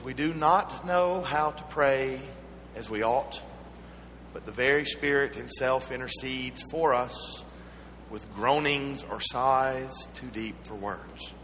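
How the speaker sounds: slow, measured Bible reading; scripture reading. Acted. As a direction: read the verse slowly, pausing between phrases. Reads scripture aloud.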